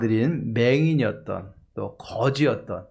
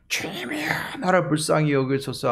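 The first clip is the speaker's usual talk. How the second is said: pleading cry; 3 semitones higher than usual. Acted. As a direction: cry out for mercy, lightly acted. Acts out blind man's plea.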